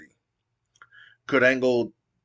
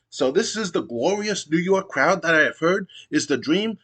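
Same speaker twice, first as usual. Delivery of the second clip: higher-pitched whiny wrestler promo, rising into pleading; pitched-up whining heel promo; Kanyon's complaint; 6 semitones higher than usual. Retold or imitated. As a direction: beg the crowd for attention, climbing higher. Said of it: "Kanyon goes".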